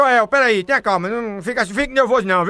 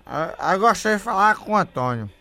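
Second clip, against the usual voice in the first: put-on drunk voice; 3 semitones lower than usual. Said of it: "o bebo rei desmantelado".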